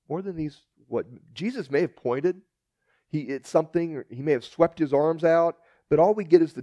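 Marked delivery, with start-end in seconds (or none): 0.1-1.1 quieter. Shown as a demonstration.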